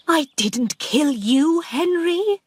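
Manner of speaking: begging the ghost to believe her; pleading. Acted.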